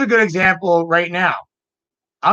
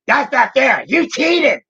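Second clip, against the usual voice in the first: whiny sore loser; 8 semitones higher, slower than usual. Retold or imitated. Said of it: "I could sound funny when I say it".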